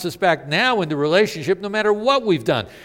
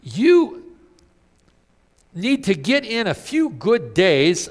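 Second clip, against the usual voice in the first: Satan's voice; 4 semitones higher, 4 dB louder than usual. Retold or imitated. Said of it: "here's what Satan says".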